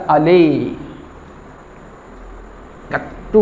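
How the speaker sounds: mild mock lisped cry after the cut; lisping yelp. Lisping friend cries out to the barber, lightly. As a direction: yelp it with a childish lisp, lightly. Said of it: "तोतला मित्र था".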